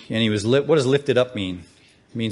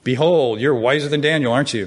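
mock admiration, drawn into a taunting tag question; sarcastic. Shown as a demonstration. Preacher re-reading a Bible verse to show its sarcasm, sarcastically. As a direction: read it as a sarcastic jibe. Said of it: "That's a sarcastic statement".

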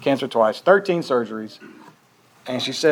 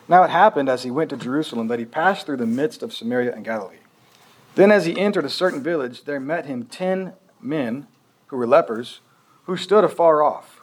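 scripture reading; 2 semitones higher than usual. Acted. Reads scripture aloud.

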